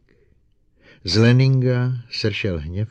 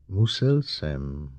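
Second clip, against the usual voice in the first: choked with horror; 3 semitones lower, much slower than usual. Acted. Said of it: "hlasem přiškrceným hrůzou".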